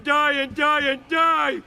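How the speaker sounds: rising shout, each die harder; despairing shout. Acted. Homer yelling at his cursed fate, despairing shout. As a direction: bellow it out at the endless dying. Homer cursing endless deaths.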